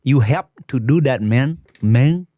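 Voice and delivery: attempted Vietnamese uncle accent. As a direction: copy a singsong Vietnamese accent. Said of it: "the uncle character".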